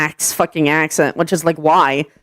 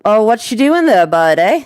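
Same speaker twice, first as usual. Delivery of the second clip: lightly put-on Canadian accent; a mild mock Canadian accent, with a tagged-on "eh"; stereotypical Canadian accent; 3 semitones higher than usual. Showing the neighbours' stereotypical accent, mock Canadian. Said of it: "That accent. That's what we're close to".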